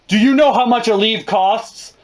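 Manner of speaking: outraged mother asking the cost; exasperated mom. Retold or imitated. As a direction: scold about the price. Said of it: "she was like".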